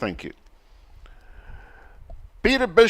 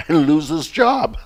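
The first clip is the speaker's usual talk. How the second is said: higher, louder, breaking into laughter; laughing while reading; 5 semitones higher, 6 dB louder than usual. Real, not acted. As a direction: crack up as you finish the joke. Laughing at a listener's joke.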